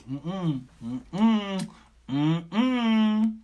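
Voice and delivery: closed-mouth "mm-mm" of refusal; disapproving "mm-mm". Retold or imitated. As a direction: hum a firm no. Voices God refusing.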